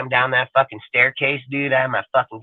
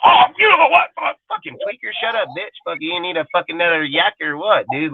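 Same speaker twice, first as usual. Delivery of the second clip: mocking a woman's voice; 3 semitones higher than usual. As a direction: sneer it like a sassy woman at a tweaker. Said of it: "some of these guys talk like they're women".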